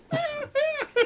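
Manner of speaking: high-pitched mock gorilla screech; imitated gorilla noises. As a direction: imitate an ape going berserk. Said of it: "gorilla violence sounds".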